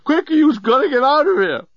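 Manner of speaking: high, panicky urging; screamed warning. A narrator's reading. Journalist warns Nettie to leave, panicked. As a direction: hurry someone away in a high mock scream. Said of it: "he screamed".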